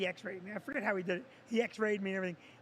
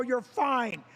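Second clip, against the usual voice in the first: mocking Vicky; 4 dB louder than usual. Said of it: "Vicky's like".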